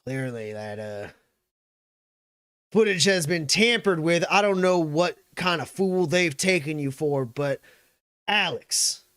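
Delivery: forceful denial after a hesitation; McGarrett. Acted. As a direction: colonel insisting on his version. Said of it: "and he goes".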